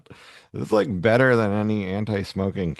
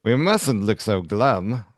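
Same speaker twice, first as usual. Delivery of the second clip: mock cheerful; slower than usual.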